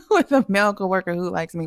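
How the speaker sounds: laughing through the words; amused laugh. Real, not acted. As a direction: tell it through a real chuckle. Laughs while telling of admirer.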